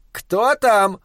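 high shouted question; wife calls out from the storeroom; calling out. Acted. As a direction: call from the back. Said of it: "крикнула миссис Фланаган".

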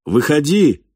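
high, emphatic order; mental command. A narrator's reading. Falk silently orders the stranger out, forceful command. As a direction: command it firmly, pitched well up. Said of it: "приказал мысленно Фальк".

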